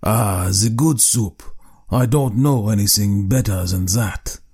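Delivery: slow, savouring delight over the soup; a lightly voiced husband relishing his soup; husband pleased with plain soup, slow and delighted. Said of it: "declared with a delighted air".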